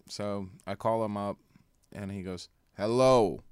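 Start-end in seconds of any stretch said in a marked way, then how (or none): 2.8-3.4 a loud, hammed-up Romanian "Hello" on the phone; mock Romanian vampire answering the phone; fake Romanian accent. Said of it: "that's a fake accent".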